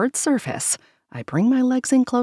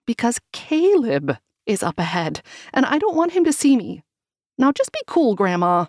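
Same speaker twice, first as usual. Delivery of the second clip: panicked; 6 semitones higher than usual. Acted. Panicked plea to grandma.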